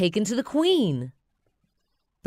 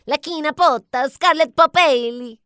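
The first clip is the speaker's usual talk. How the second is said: much higher, louder minion decree; minion proclamation; 10 semitones higher, 9 dB louder than usual. Acted. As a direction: proclaim it grandly. Bob crowns Scarlet.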